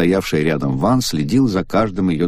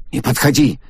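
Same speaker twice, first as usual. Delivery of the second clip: higher, pushing him away; frightened cry; 6 semitones higher than usual. A narrator's reading. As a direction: warn him off in panic. Агата шарахается от По. (Агата в страхе отшатывается от По)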